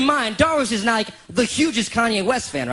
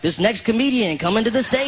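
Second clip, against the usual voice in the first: Jason; 3 semitones higher than usual. Retold or imitated. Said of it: "my friend Jason's in the living room".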